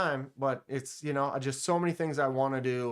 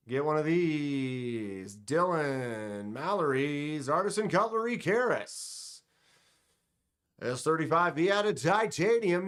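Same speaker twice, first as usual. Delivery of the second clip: pitchman voice. Acted. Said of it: "Is that your pitchman voice?".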